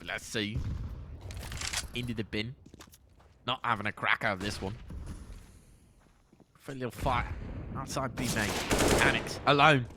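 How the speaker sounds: put-on a light, half-hearted British caster accent; casting in a lightly put-on British accent. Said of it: "cast his last couple of rounds in a British accent".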